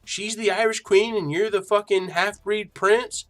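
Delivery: mock the girlfriend's incredulous confrontation; accusing girlfriend. Girlfriend confronting him about the stream, mock indignant.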